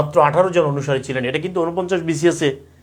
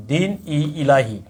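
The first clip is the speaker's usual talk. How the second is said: slow, drawn-out দিন ই ইলাহি; slow spelled out; slower than usual. Shown as a demonstration. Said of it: "কি নাম?".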